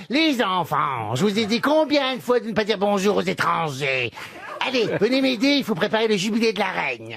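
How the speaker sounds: a hint of a fussy cartoon butterfly; Siméon cartoon voice. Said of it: "le papillon, il dit".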